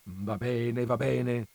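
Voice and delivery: gently giving in; softened father. A narrator's reading. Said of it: "disse il papà intenerito".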